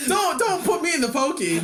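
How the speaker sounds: high, laughing mock plea; mock pleading. Jokes on silly old phrase.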